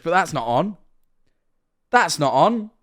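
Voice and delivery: high, loud British indignation; mock telling-off. Streamer telling the boy off for his drawing, loud mock outrage. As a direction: scold loudly, rising to a yell.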